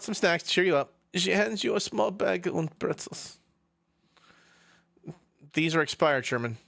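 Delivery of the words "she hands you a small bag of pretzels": put-on slow, higher German-accented narrator; German-accented narration. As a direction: read it slowly in a German accent.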